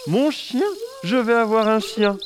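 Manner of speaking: high, loud, overjoyed shout of a dad who wants a dog; thrilled papa. Acted. Papa dancing round the table, thrilled shout.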